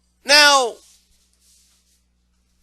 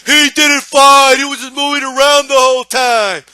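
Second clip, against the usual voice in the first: loud, higher, indignant shouting; outraged fan; 3 semitones higher, 6 dB louder, slower than usual. Retold or imitated. Fan furious the winner dodged, loud indignant shout. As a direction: protest the result in outrage. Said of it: "the guy that goes".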